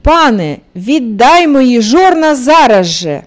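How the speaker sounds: loud demanding shout; rooster shouts. Acted. Rooster shouting from the lord's stove, demanding his millstones. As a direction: shout the demand, now angrier. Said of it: "знову кричить".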